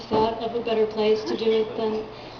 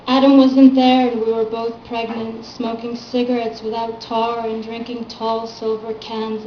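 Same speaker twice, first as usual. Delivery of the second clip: measured reading of a poem, firm line openings; poetry reading; 4 dB louder than usual. Acted. Poet reading her work to a small audience, poetry reading. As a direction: recite your poem to a live room.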